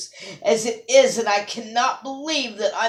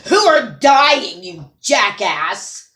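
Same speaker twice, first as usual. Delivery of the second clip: blowing up; 4 dB louder, slower than usual. Real, not acted. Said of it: "for blowing up like that".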